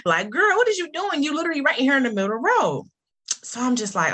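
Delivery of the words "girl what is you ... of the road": high, fast sassy driver scolding; a hint of a passer-by cursing her out; mock passing driver. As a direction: toss it off like a rude driver yelling by. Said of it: "They probably cursing me out".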